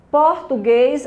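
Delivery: "Português" with weight on final guês; teacher's demo of "Português", stressed on guês. Shown as a demonstration. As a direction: model "Português", leaning on the last syllable. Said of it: "a sílaba tônica guês".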